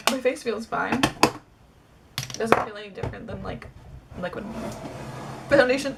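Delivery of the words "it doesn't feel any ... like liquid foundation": hiccuping mid sentence; suppressing hiccups. Real, not acted. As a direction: hold back hiccups while talking. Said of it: "I have hiccups now".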